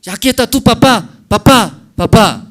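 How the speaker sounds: put-on high, loud, quick baby talk; coaxing mother, papá. Mother showing the baby its dad, quick and high. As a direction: bounce the word papá at the baby.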